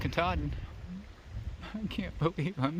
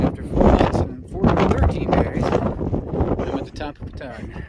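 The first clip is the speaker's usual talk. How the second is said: loud, breathless and elated; emotional triumph; 3 semitones higher, 10 dB louder than usual. Real, not acted. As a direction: shout out a hard-won arrival. Reaching the summit after months.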